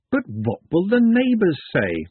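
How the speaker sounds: high-pitched despairing wail. A narrator's reading. Glenda's last objection to the sherry, despairing. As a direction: plead it high, as a last argument. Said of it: "was the last despairing argument from Glenda".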